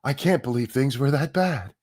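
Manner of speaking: mock dismay, rising to a high wail; mocking shocked journalists. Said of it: "how they were like".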